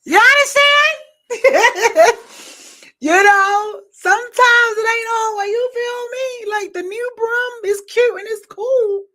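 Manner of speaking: high, loud words through laughter; laughing hard. Real, not acted. Talking about the old broom while cracking up, laughing. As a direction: laugh while trying to talk.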